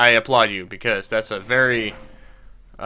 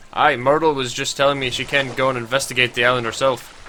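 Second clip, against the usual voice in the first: put-on Scottish accent. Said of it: "pretty close accent to what he's supposed to have".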